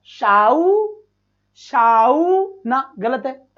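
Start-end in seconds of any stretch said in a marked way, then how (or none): 0.1-1.0 शाऊ said with an ow glide, the wrong way; wrong pronunciation demo. Shown as a demonstration. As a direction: say शाऊ as the mistaken ow sound. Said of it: "तो इसको ऐसे बोलेंगे क्या?".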